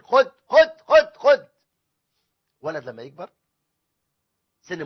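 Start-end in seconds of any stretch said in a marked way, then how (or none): 0.0-1.5 higher, louder rapid handing-over; mock eager giving, punch each repeated word; over-indulgent father. Father handing his child everything demanded, exaggeratedly compliant.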